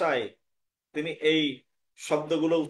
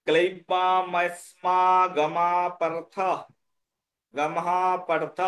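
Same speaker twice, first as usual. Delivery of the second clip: no stop at গমা, hold on to পার্থ; pause after পার্থ; slower than usual. Shown as a demonstration. Teacher showing where to stop, slow chanted phrasing up to পার্থ. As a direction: run through slowly to পার্থ and stop there. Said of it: "গমহ পার্থে থামতে হবে".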